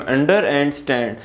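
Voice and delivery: slow "under and stand", the halves set apart; deliberate two-part reading of under and stand; two separate parts. Shown as a demonstration. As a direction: split under from stand for a learner. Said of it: "दो pronunciation आ रही हैं".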